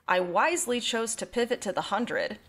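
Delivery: dry, lightly sarcastic self-mockery. Real, not acted. Podcaster confessing a teenage show choice to co-hosts, sarcastically. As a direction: say it with a touch of knowing sarcasm. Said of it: "and this is sarcasm".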